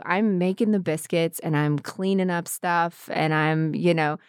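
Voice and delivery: lightly played Southern homemaker accent; a touch of hardworking Southern country wife; Southern women. Imitating women she grew up around, mild Southern accent. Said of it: "this thing where they're like".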